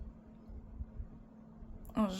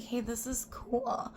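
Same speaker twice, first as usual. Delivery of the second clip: whispered thought; 3 semitones higher, slower than usual. Retold or imitated. Quoted own thought.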